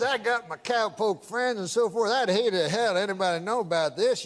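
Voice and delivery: lightly mimicked Southern prospector accent; crazy old-timer accent. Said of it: "I can tell by the accent".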